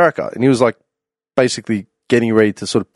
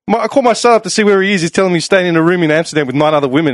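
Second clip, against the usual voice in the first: lightly voiced dad, a bit higher and quicker; dad on the phone; 4 semitones higher, faster than usual. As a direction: retell it as the father to his mate. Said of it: "he goes".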